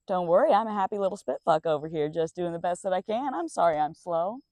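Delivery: fast, forced chipper sarcasm; bitter fake cheer. Real, not acted.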